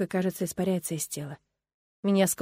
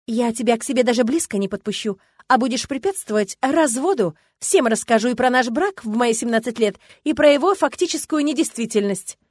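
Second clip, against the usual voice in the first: louder, rising heat as she threatens; defiant threat; 4 semitones higher, 5 dB louder than usual. Acted. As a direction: warn him off, getting angrier. Wife threatens in story. (угроза, нарастающий гнев)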